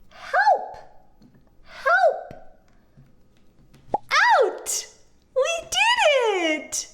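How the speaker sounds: excited calls. Acted. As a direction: cheer the cow out for the kids. High excited rescue calls.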